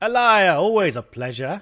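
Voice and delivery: loud, grand, posh put-on voice. Playing through a game, the speaker voices Huang greeting Elia in a posh voice. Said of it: "I'll just give him a posh voice".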